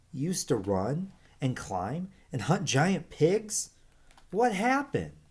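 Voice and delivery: astonished. Acted. Young Verdi astonished by the old lizards' stories. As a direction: let the amazement burst out on what happened. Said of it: "Verdi was astonished".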